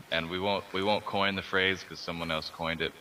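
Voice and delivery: raspy smoker's voice, radio-host style. Real, not acted. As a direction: talk in your everyday smoker's rasp. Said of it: "a radio voice on right now".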